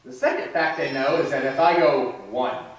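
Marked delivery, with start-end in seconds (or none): 2.3-2.6 lightly voiced stern counting dad; a hint of a father's warning count; daddy voice. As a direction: count a firm warning to the kids. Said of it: "in my daddy voice".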